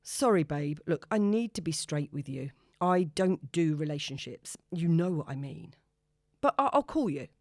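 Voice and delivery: a hint of a breezy blow-off; easygoing brush-off; cool man letting her down; lightly voiced casual man.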